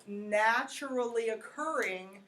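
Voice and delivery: "naturally occurring" said slowly with clear emphasis; stress on naturally occurring. Real, not acted. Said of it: "putting an emphasis on the word naturally occurring".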